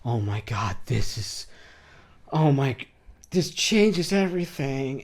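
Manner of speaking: imitating someone breaking down, rising at the end; hammed-up grateful overreaction, mildly acted; half-acted crying, slowing on the last phrase; mock tearful overwhelm. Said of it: "they just break down crying".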